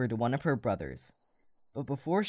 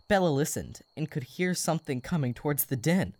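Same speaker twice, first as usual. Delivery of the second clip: put-on calm storybook reading for kids; story narration. A narrator's reading. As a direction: read it like a bedtime story. Reads the story aloud.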